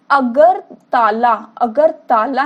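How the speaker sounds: अगर ताला said slowly with a break between अगर and ताला; slow, split apart. Shown as a demonstration. Teacher splits the name for students, slow and separated. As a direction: drag out अगर ताला as two separate words. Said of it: "अगर ताला से अगर तला".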